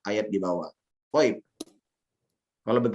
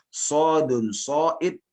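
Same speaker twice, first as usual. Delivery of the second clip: slow, measured Arabic verse recitation; teacher modelling a verse line; 2 semitones higher, slower than usual. Shown as a demonstration. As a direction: recite slowly, lifting each phrase ending until the last. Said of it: "Anda bacakan syairnya".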